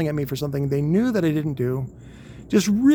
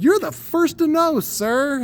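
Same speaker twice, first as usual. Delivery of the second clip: high, loud cheeky report to an officer; mock snappy soldier; 13 semitones higher, 3 dB louder, slower than usual. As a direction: deliver it like a smug airman at attention. Cheeky reply to lieutenant.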